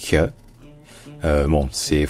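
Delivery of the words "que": "que" comme un souffle palatal, hy; H assimilé. Shown as a demonstration. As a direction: souffler le H contre le palais. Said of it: "le H est assimilé en que". (« que » en H palatal soufflé)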